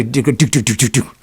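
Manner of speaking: quick string of identical "do" pulses; imitated strobe flashes. Describing his homemade strobe light, rhythmic imitated flashing. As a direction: mimic a strobe light with rapid, even syllables.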